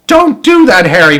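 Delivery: high, loud protesting cry; cried out. Acted. Wife crying out at husband over the TV, high and loud. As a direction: wail at him to leave the TV. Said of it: "Missus Wormwood cried out".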